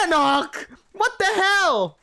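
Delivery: high, loud, drawn-out laughing yell; shocked squealing protest; laughing outraged shout. Acted. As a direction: yell his name through laughter. Showered with cold water.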